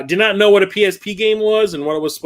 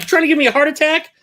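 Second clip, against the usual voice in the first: high, fast exasperated jab; mock exasperation; 12 semitones higher, 3 dB louder, faster than usual. Streamer scolding the clerk, high fast exasperation. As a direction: rattle it off high and incredulous. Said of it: "I'm like".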